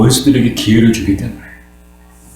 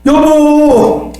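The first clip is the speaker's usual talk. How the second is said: high, drawn-out desperate call; wailing cry; 12 semitones higher, much slower than usual. Acted. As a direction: cry out for family to come back. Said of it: "울부짖기 시작한 거예요". (울부짖으며 애타게 부르는 소리)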